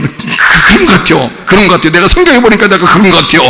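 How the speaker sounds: stammering, hurried imitation of a cowering believer; hammed-up nervous stutter giving in; mock trembling. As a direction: play frightened agreement, speeding up. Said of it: "벌벌 떨어".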